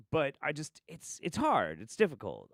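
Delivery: usual speaking voice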